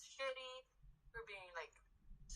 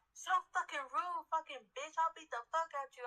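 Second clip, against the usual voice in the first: mock furious customer; 4 semitones higher, 4 dB louder than usual. Customer threatening the worker.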